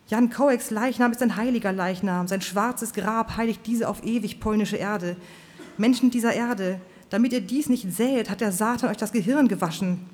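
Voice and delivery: fiery preacher. Acted. Preacher Swan's fiery speech.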